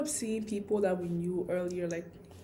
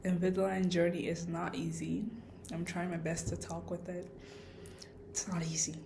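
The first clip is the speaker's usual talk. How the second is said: slight lisp from aligners; 4 dB quieter than usual. Real, not acted. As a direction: speak around Invisalign trays. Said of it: "excuse my lisp".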